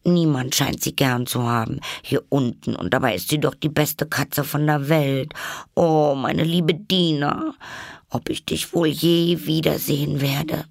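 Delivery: put-on high, plaintive child voice; saddened. A narrator's reading. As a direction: lament a missed pet, alone. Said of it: "sprach sie zu sich mit betrübtem Tone".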